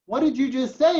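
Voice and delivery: high-pitched, rising mock disbelief; retold shocked parent. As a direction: act out a startled parent questioning a child. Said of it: "and I'm like".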